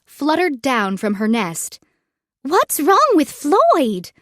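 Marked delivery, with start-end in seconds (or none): 2.4-4.1 high, slow little bird voice; peeping bird. Acted. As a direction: peep it like a small worried bird. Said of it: "Birdie peeped".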